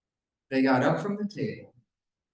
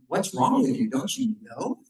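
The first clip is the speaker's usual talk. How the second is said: mildly mocking, incredulous retort; a touch of scornful disbelief, retold; sarcastic; 4 semitones higher than usual. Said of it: "the sarcasm in their voice".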